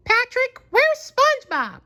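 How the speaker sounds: high Texan squirrel voice asking; Sandy asking. A narrator's reading. Sandy asking Patrick at the door. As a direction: ask Patrick with concern. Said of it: "she asked".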